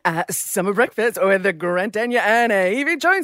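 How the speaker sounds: a lightly done impression of her co-host; a light imitation of the radio co-host; Grant Denyer. Host imitating her co-host signing off the show. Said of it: "Evie Jones' impersonation of Grant Denyer".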